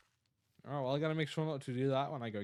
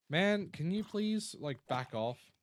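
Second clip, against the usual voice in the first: annoyed; 4 semitones higher, 4 dB louder, slower than usual. Real, not acted. Telling someone to back off.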